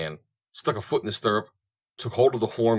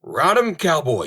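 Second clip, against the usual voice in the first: very high, loud cheer; yelled; 8 semitones higher, 6 dB louder, slower than usual. Acted. Idaho cheering Corson on the horse, yelling. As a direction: whoop the rider on. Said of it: "yelled Idaho".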